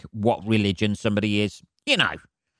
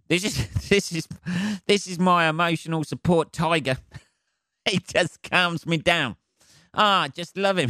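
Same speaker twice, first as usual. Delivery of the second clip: higher-pitched mock passenger with a laugh; doting pet owner; 6 semitones higher than usual. Passenger defending a support tiger, doting mock voice. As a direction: gush over a beloved pet, higher.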